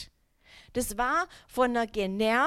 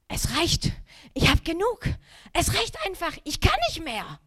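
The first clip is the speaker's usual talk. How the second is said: exasperated; 6 semitones higher, 3 dB louder than usual. Retold or imitated. Exasperated inner thought.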